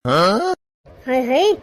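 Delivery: low, drawn-out theatrical lament; mock wail. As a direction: wail it like an outraged old mother-in-law. Mother-in-law mock laments. (नाटकीय अंदाज़ में धीमा, खिंचा हुआ विलाप)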